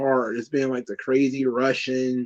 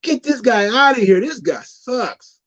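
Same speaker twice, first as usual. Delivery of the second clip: mock angry crowd; 7 semitones higher, 3 dB louder than usual. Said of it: "They're like".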